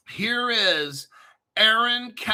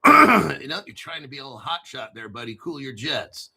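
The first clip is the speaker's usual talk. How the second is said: mock scolding voice; 5 semitones lower, 4 dB louder, faster than usual. Alter ego scolds host, low fast.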